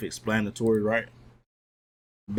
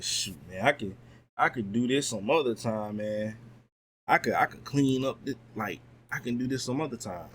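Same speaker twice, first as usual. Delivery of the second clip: lazy excuse. Retold or imitated. Voicing lazy self putting off cleaning.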